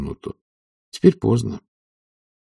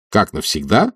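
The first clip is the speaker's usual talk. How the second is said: ordinary delivery, nothing marked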